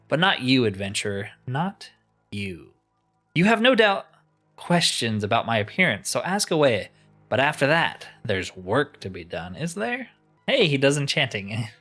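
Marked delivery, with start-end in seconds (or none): 0.1-10.1 mildly theatrical, with dramatic rises and drops; a hint of pompous wizard; lightly voiced haughty enchanter. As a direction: play a condescending master, understated. Voices crystal enchanter in game.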